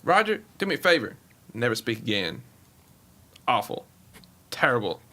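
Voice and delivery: lightly voiced dismissive team owner; put-on owner, dropping low after the address; Jerry Jones impression. Team owner dismissing the commissioner, lightly voiced scornful impression. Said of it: "the Jerry Jones wasn't bad".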